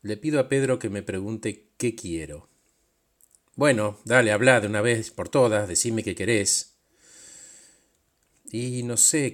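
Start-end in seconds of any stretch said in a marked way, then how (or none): 3.5-6.7 louder, exasperated push; impatient demand. Acted. Boss voice louder and impatient, ordering Pedro to speak. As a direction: snap at him to get on with it.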